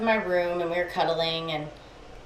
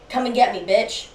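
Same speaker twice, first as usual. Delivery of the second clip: raised, louder mock challenge; retold taunt; 3 semitones higher, 5 dB louder than usual. Boyfriend daring a ghost in his mind, taunting. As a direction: throw it out as a cocky dare.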